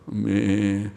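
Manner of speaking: level, drawn-out imitation baa; lightly imitated sheep bleat; sheep's bleat. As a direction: answer as a willing sheep. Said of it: "양의 모습이라고".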